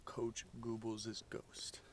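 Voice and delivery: soft, slow whispered ending; spooky whisper. A narrator's reading. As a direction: whisper the last words to spook them.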